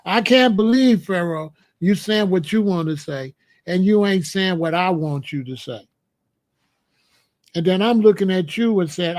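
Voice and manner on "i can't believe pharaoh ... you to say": a hint of a whiny chatter; flat blunt mocking paraphrase. Mocking a chatter to his face, flatly. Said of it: "Just tell it flat, fat".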